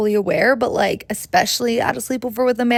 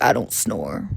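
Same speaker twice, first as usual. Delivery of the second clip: much lower, dumb-guy voice; mock boyfriend; 5 dB quieter, slower than usual. Boyfriend denying he snores, in a low mock guy voice. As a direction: drop low and play the clueless boyfriend.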